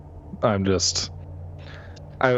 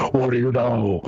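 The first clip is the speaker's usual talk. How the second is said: Batman voice; 4 semitones higher than usual. Acted. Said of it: "Dark Knight Batman mode".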